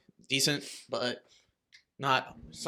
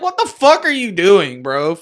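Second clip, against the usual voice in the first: mock yell; 3 semitones higher, 8 dB louder than usual. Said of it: "and I was like".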